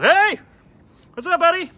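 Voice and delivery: loud, high, hearty fake cheer; booming fake-friendly hello to a regular; fake buddy greeting. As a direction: overdo the friendly bartender hello.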